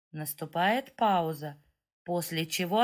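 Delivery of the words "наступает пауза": plain reading voice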